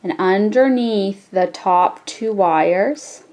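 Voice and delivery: slow, drawn-out step. Shown as a demonstration. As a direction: stretch it so learners can follow. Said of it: "repeat this a little slower".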